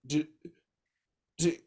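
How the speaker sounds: high, loud incredulous coworker voice; surprised coworker. Retold or imitated. Retelling a coworker's disbelief at the refills, high and loud. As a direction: imitate her stunned double take. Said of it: "one of the other teachers was like".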